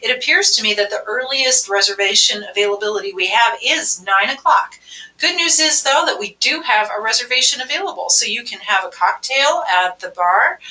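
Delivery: upbeat, helpful hostess; vacation tone. Shown as a demonstration. Restaurant hostess offering a caller a later table, upbeat. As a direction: sell the good news with a smile. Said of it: "If I have a vacation tone".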